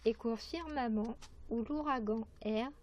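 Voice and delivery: measured verse reading with pauses between lines; poetry recitation. Acted. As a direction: recite the poem phrase by phrase. Reads a poem aloud.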